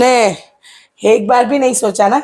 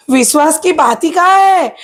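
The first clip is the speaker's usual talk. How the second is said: raised pitch, indignant challenge; indignant retort; 5 semitones higher than usual. Acted. Sister-in-law rejecting an appeal to trust, indignant. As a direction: throw the excuse back at her.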